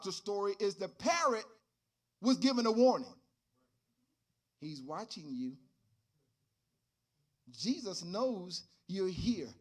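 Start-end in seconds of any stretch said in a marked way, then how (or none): 4.6-9.5 mysterious voice. Acted. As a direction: speak low like an unseen watcher in the room. Deep voice echoes the warning.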